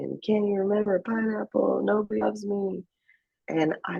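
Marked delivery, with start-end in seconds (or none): 0.2-2.8 retold tearful cry, pitched up; higher-pitched, half-hearted mock wail. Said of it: "like, screaming, crying".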